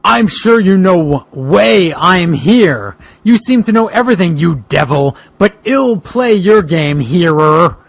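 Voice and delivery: slow, deliberate defiance; defiant detective. Acted. Detective Boogeyman confronts villain Kali, slow and defiant. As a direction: lay down each word, unafraid of the devil.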